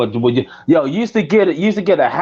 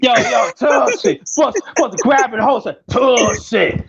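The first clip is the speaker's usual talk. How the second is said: hammed-up Tussie; 2 semitones higher than usual. Shown as a demonstration. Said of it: "you supposed to grab your dangle when you say Tussie".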